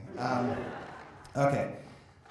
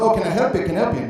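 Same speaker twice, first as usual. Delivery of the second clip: bad Irish accent; 5 semitones higher, 10 dB louder, faster than usual. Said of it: "bad Irish accent".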